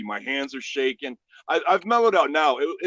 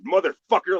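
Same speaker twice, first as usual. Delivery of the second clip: raised, menacing retold curse; acted threat; 4 semitones higher, 4 dB louder than usual. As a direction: curse at him with the gun up. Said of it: "like that".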